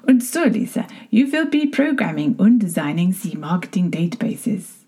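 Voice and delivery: a light, hammed-up German accent on a boss's order; mock German boss, only lightly put on; bad German accent. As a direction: boss announcing her new job in a bad German accent. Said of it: "I'm gonna do a very bad German accent".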